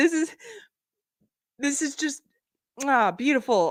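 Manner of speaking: high voice, words broken by pained laughter. Reacting to a shirt mocking a woman crying, laughing despite hurting stitches. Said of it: "I'm laughing, it's hurting my stitches".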